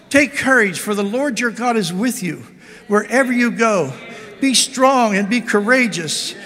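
fiery preacher exhorting the church; full-force preaching. Acted.

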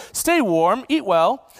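put-on lightly affected British accent; a hint of British well-wishing. Imagined believer sending off someone hungry, mild British accent. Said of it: "saying this in a British accent".

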